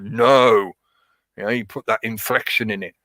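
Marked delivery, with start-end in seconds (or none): 0.0-0.7 sharp, louder no from the gut; firm no to the dog on the sofa; assertive no. Shown as a demonstration. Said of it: "telling the dog to get off the sofa".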